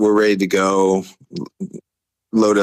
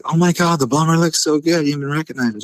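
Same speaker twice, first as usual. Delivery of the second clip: higher-pitched imitation of an admiring friend; mock gushing; 9 semitones higher than usual. Friend admiring the bomber, mock gushing. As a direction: gush in a high voice.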